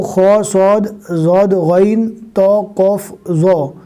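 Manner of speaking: खौ, सौद, ज़ौद, गैन, तो, कौफ, ज़ो each said full and heavy; heavy letters listed. Shown as a demonstration. Teacher listing the seven heavy letters one by one. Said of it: "मैं आपको short में बता देता हूँ".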